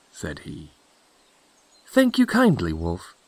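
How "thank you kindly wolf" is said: put-on high girlish voice dropping at the end; polite little girl, pitched high; Little Red Cap. Red Cap answers the wolf.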